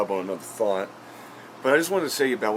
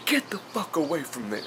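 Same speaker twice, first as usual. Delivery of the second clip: mock redneck holler, pitched up without real volume; imitated yell; 7 semitones higher, 3 dB quieter than usual. Vlogger imitating a redneck yelling at his film crew, mock yell. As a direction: holler it high, held back in level. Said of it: "this dude just yells".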